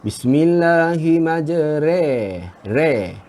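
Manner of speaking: slow Bismillahimajre- ending in "re"; slow re reading; student's reading. Retold or imitated. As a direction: draw out Bismillahimajre- with "re". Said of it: "ada juga saya dengar orang baca".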